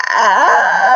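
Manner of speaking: a loud, frightened yes; stammering. A narrator's reading. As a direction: blurt it out in fear. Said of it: "he stammered".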